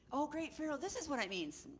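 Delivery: high-pitched deferential adviser; wise man. Acted. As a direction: pitch it up like a fawning courtier. Second wise man answers Pharaoh.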